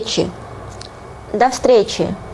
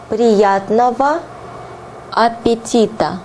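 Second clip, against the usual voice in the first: slow Russian; slower than usual. Shown as a demonstration. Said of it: "slow teaching repeat".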